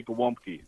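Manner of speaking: Gołąbki said the Polish way, ł as W; Polish pronunciation. Shown as a demonstration. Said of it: "It's pronounced W".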